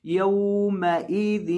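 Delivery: यौमइज़िन slowly, nasal ghunna on the नून. Shown as a demonstration. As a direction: stretch यौमइज़िन with a humming nasal sound. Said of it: "नाक में नून की आवाज़ को पढ़ना है". (यौमइज़िन में नाक से गुन्ना)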